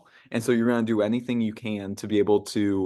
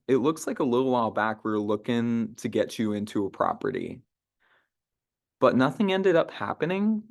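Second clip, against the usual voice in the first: casual, friendly check-in; friendly call script. Shown as a demonstration. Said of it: "and then from there, it's like".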